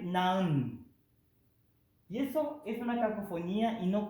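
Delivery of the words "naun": naun said as one syllable, shown as the wrong form; wrong sound naun. Shown as a demonstration. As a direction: model the cacophony naun. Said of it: "suena así". (naun, la forma que suena mal)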